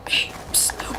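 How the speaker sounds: unvoiced whispered psst to get attention. Real, not acted. Whispering to catch someone's attention. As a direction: hiss a secret hey.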